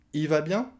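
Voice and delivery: "Il" shortened to "i"; "i va bien?" lifted, no L; dropped L. Shown as a demonstration. Teacher repeating the question, L swallowed. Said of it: "le il devient i à l'oral".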